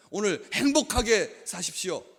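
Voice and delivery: high-pitched, drawn-out well-wishing; loud morning blessing. Acted. Preacher acting a neighbour's morning blessing, high and loud. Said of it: "큰 소리로 하면".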